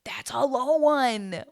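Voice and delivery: a hushed, dramatic aside; whispered verdict. Real, not acted. Judging the season's result to viewers, in a slow whisper. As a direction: whisper it slowly, no voice. Reacting to only one marriage.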